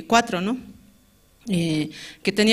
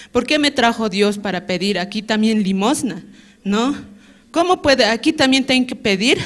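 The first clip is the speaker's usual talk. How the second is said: indignant. Retold or imitated. Recalling her angry thoughts while carrying loads, indignant. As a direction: protest to God that it isn't fair. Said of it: "tan enfadada realmente en mi corazón".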